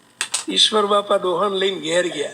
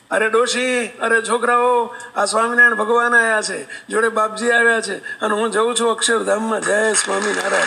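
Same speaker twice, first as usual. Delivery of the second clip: calling out. Retold or imitated. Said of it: "બૂમ પાડે".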